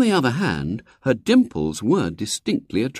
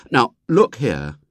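put-on impulsive boy; 4 semitones higher, 4 dB louder, slower than usual. A narrator's reading. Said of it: "said William impulsively".

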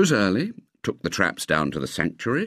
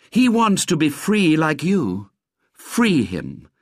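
slow, higher declaimed appeal; drawn-out slogan; pleading poster slogan; 8 semitones higher, 3 dB louder, slower than usual. A narrator's reading. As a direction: read it out like a poster.

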